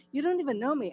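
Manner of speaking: retold anger, pushed harder. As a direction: push the protest up, half-acted. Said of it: "I was so mad".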